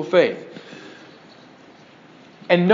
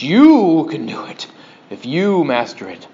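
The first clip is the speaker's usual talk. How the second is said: mock TV preacher; 2 semitones lower than usual. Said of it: "Brother Yoda on the T V".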